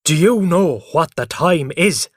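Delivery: furious father scolding; angry father. A narrator's reading. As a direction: scold about the early hour.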